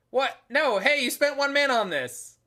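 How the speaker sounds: high, loud burst of disbelief; indignant protest. Real, not acted. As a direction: protest in real surprise at the opponent's move. Protests opponent's move in game.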